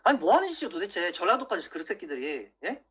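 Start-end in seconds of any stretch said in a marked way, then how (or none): 0.0-1.1 exasperated yell. Real, not acted. Fed up with right-wing YouTubers, loud exasperated yell. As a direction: let the frustration burst out. Angry rant at rival YouTubers.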